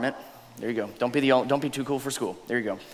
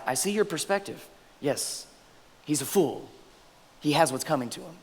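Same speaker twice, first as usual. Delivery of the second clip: soft pleading Abigail; 8 dB quieter than usual. Acted. Preacher voicing Abigail pleading softly.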